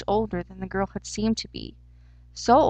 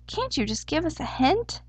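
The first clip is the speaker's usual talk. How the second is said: higher-pitched, pleading question; restrained plea; 7 semitones higher than usual. A narrator's reading. Hare without pants asks for a hint, restrained high plea. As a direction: lift the pitch and hold back annoyance.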